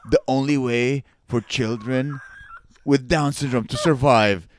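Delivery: pace it out like a movie trailer, pausing between phrases; mock trailer narrator. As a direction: pretend dramatic voiceover.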